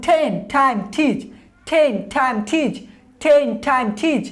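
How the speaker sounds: টেন টাইম টিচ with a puff of air on each ট; aspirated T drill. Shown as a demonstration. Teacher drills learners on aspirated T words. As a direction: breathe out on every ট. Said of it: "যেমন".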